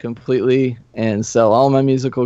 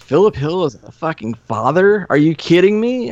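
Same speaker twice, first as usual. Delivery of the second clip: retold incredulity, rising higher; mock disbelief; 4 semitones higher than usual. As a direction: pitch climbing in incredulous questions. Imitating people's disbelief at news.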